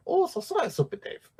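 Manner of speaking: high mock Asian-accented catchphrase; practised mock Asian accent. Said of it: "I got pretty good at saying".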